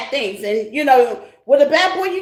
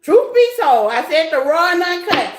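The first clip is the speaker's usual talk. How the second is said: emphatic declaration; 3 semitones higher than usual. Real, not acted. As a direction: announce it boldly, no holding back. Louder repeat, "raw and uncut.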